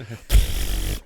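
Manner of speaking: long voiceless burst of air; loud comic mouth noise; blown noise. Pretend. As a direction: blow out a loud rude noise. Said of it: "That's the noise they'll make".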